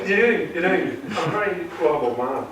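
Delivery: lightly camp, lilting delivery; coy, slightly camp self-praise. Real, not acted. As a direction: let it slip a touch camp. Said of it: "I said that in a once too camp voice".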